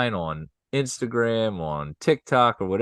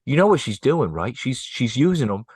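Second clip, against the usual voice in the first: mimicking a Delco mom; faster than usual. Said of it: "It was a Delco mom saying".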